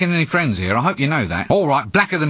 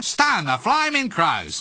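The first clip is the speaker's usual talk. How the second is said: mock Australian accent; 4 semitones higher, slower than usual. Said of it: "now you've got me doing it".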